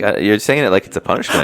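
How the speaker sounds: amused, laughing through the words. Real, not acted. To his friend, laughing at the mix-up. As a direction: laugh while pointing out the joke.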